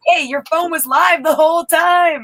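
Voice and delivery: high-pitched, eager burst of news; excited retelling. Retold or imitated. Friend re-enacting telling him his phone stayed live, excited. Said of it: "We were so excited to tell you".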